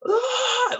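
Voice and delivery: high, sudden mock wail; wailing cry. Sobbing in the bathroom stall, a loud wail. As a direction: let out one sharp wail. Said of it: "just like, wailing".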